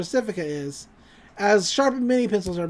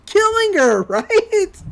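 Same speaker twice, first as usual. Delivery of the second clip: much higher, louder, with a laugh; gleeful villain suggestion; 11 semitones higher, 5 dB louder, much slower than usual. Retold or imitated. Franz explains his plan to Mabel, mock-gleeful and high. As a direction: pitch a wicked idea in mock glee.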